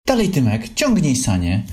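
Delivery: high, eager call to a friend; shouting. Acted. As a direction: shout him on to pull the sled. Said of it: "krzyczał Lisek". (wołając, wyżej i głośniej)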